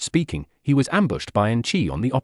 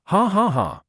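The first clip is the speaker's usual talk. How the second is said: laughing; 7 semitones higher than usual. A narrator's reading. Narrator laughs at the girl.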